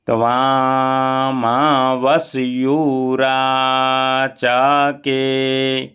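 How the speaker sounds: careful slow Vedic chant; slow mantra recitation. Shown as a demonstration. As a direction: chant the mantra slowly and clearly. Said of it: "एक बार अच्छे से और पढ़ लेते हैं". (धीमा मंत्र पाठ)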